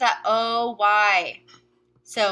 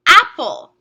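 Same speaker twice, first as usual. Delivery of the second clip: announced example word; 3 semitones higher, 9 dB louder than usual. Shown as a demonstration. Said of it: "Our word is".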